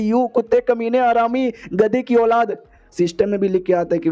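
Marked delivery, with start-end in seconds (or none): 0.0-2.6 put-on outraged girl cursing the man who stood her up; furious insults. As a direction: spit out every insult at him. Heroine hurls insults at hero.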